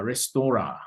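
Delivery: restaurant with a French ending, no final T; French pronunciation. Shown as a demonstration. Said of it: "you are writing a French word".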